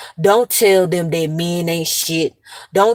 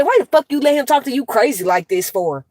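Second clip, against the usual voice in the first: higher-pitched, indignant retold challenge; retold cussing-out; 5 semitones higher than usual. Aunt retelling how she challenged her sister, retold cussing-out. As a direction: demand an answer as if reliving the row. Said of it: "I cussed his ass out".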